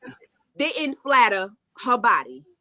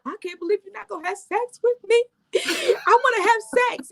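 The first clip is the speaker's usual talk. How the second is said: higher, whiny mock sobbing plea; mock crying; 10 semitones higher than usual. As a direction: imitate her crying and begging, hammed up. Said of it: "she was crying".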